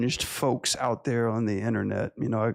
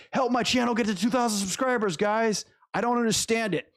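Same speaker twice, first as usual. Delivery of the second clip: mock pleading; 9 semitones higher than usual. Begging viewers to subscribe.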